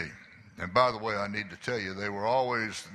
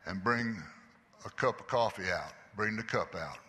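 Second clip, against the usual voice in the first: kind voice; 3 semitones higher, 3 dB louder than usual. Retold or imitated. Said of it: "in a kind voice".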